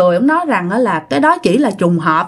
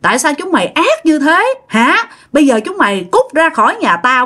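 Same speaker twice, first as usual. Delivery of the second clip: scolding; 4 semitones higher than usual. Retold or imitated. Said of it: "cái bả chửi".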